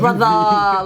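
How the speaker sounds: lightly imitated Turkish-friend accent on a drawn-out word; Turkish friend's accent. Echoing how she and her Turkish friend talk, light Turkish accent. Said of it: "I talk like that 'cause she does".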